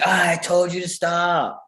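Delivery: high-pitched, hammed-up fed-up parent; put-on exasperated outburst; mock exasperated scolding. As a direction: act out an adult losing patience. Adult's third, escalating scolding.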